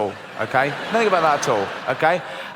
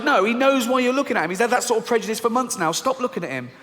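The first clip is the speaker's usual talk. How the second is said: higher, urgent hushed warning; 7 semitones higher than usual. Acted. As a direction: urge it anxiously. Fearful voice urging.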